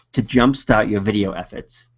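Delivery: slipping into a Boston accent, r dropped in "jumpstart"; "jumpstart" said "jumpstaht" with no r, Boston accent. Real, not acted. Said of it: "my Boston accent came out".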